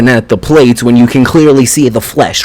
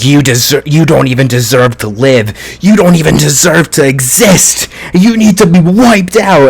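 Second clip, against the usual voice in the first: mild mock scream; 2 semitones higher than usual. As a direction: imitate a furious tirade, rising towards the end. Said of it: "he's just screaming in his head".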